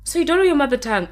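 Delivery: high, loud, fast questioning; incredulous student. Retold or imitated. Student challenging her teacher about language, incredulous. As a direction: imitate a student in quick, high-pitched disbelief. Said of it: "So my student".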